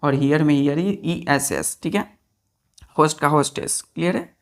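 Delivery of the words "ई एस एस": ई एस एस spelt very slowly; teacher stressing ई एस एस to pupils; slow spelling. Shown as a demonstration. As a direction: stretch each letter out. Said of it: "spelling ending slowly".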